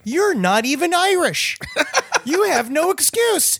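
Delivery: high-pitched, drawn-out mock protest with laughter; laughing indignation. Telling off a drunk woman for unclear speech, laughing indignation. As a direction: protest in disbelief, cracking up.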